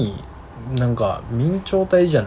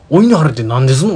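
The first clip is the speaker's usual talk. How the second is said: imitating a curious caller; 6 dB louder than usual. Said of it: "っつって".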